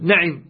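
نعم as na'im, open a on the nun; fatha nun, kasra ayn. Shown as a demonstration. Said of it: "هكذا".

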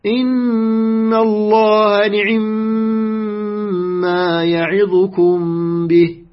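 measured recitation, the i of the ayn in نعم cut to two-thirds; snatched kasra on ayn. Shown as a demonstration. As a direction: chant the verse slowly, نعم as ni'imma with a very brief i after the ayn. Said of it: "لاحظ، اختلست".

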